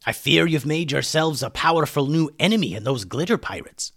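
lightly put-on character voice; a hint of cartoonish voice; cautioning story character. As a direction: give a warning as a storybook figure.

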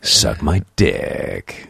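very slow, low announcer rumble; low movie-trailer voiceover, last word stretched; rumbling voiceover voice. Shown as a demonstration. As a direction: drag it out deep, rumbling on DICK. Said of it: "a little more rumble on the dick".

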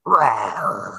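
half-hearted spoken "roar"; lion roaring at the bars; mock lion roar. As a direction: play the lion lightly. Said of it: "the lion's like".

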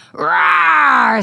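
put-on loud playful child's roar; drawn-out mock dinosaur roar. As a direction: roar like a little T-Rex.

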